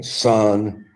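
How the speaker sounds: a hint of a patronizing Southern elder talking down; mild Southern "son" lecture.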